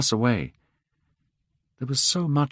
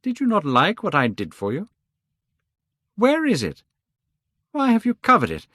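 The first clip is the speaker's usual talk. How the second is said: much higher, rising urgency; agitated Basil; 12 semitones higher than usual. Acted. Basil demanding to see the covered picture. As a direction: press him, building to alarm.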